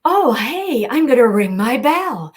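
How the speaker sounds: high, loud train character voice; Belle. Shown as a demonstration. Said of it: "please do your bell voice for us".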